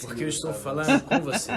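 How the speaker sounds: laughing mock deep voice; deep put-on voice. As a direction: croon it with a laugh. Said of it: "Por que que você engrossou a voz".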